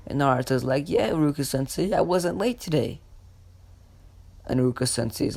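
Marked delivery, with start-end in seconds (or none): 0.9-3.0 lightly voiced eager pupil, higher pitch; eager reply. Pupil answers his sensei about being on time, mildly eager. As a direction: answer teacher brightly in a raised pitch.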